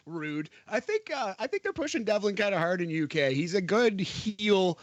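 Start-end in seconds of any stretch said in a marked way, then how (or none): 3.3-4.8 a light Kalisto imitation, slow and drawn out; Kalisto impression. Quoting Kalisto's catchphrase about Devlin, slow and lightly mimicked. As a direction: stretch out "good heel" slowly, a hint of Kalisto's accent. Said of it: "as Kalisto would say".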